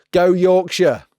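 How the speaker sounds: slow, high, loud rallying cry; drawn-out cheer. Pretend. Lancastrian in costume cheering Yorkshire, in a slow loud rallying cry. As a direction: stretch the cheer out like a crowd chant.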